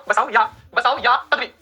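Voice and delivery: slow, word by word; slow dictation. Shown as a demonstration. Teacher slowing down so students can note the word. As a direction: spell the term out slowly for the class. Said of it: "teacher dictating a new word".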